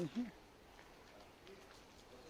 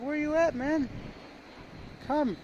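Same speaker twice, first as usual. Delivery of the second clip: voicing the dog; 10 semitones higher, slower than usual. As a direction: call back as the dog, pitched way up. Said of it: "He's like".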